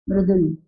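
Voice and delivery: मृदुल with r tucked under म, "mru-dul"; teacher's repeat of मृदुल, vocalic r; correct pronunciation. Shown as a demonstration. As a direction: model मृदुल as "mrudul". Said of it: "म में नीचे र होता है".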